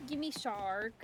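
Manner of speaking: loud, very slow whining; whiny demand. Real, not acted. Wanting to catch a shark, a loud drawn-out whine.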